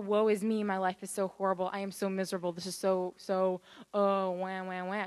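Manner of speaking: lightly hammed-up woe-is-me; mock self-pity. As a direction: imitate someone wallowing, with mock wailing at the end. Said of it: "She wasn't like that".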